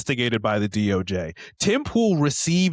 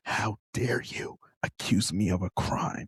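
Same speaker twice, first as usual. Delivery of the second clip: mock rehearsal. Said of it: "practicing in the mirror".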